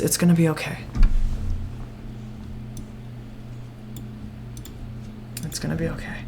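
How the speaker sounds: soft comforting murmur, fading to hushed; reassuring hug. Acted. Rin hugging the scared child, softly reassuring. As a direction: soothe the crying child in your arms. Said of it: "Rin ... gives you a hug ... says".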